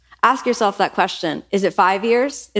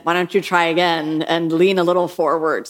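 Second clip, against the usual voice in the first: compassionate teacher; 3 semitones lower than usual. Retold or imitated. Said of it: "deep compassion".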